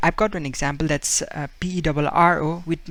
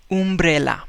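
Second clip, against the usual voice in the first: umbrella with an oo vowel; Spanish-accented umbrella; 3 dB louder than usual. Retold or imitated. Teacher imitating a Spaniard saying umbrella. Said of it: "he would say it".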